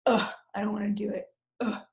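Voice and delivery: a mock whiny, unwilling "ugh"; lazy groan. Shown as a demonstration. Teacher acting out a lazy kid for class, mock whiny. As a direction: act too lazy to bother. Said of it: "It's a lazy sound, it's like".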